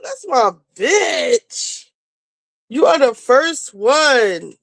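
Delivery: slow, fond praise; moved thanks to the first Patreon member; touched. Real, not acted. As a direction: savour the moment with love.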